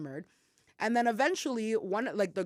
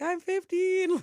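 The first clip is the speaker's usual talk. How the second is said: higher, sweet put-on innocence; innocent little voice; 9 semitones higher, 4 dB louder, slower than usual. Teen answering transit police, playing sweetly innocent. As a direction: sound young and harmless.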